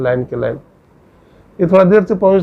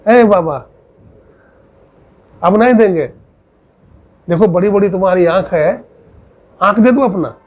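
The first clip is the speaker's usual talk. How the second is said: put-on angry old woman; 3 semitones higher than usual. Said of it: "गुस्सा आ गया बुढ़िया को".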